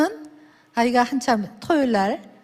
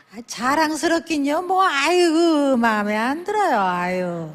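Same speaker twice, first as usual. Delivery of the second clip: mock grumbling; 3 semitones higher, slower than usual. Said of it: "했더니".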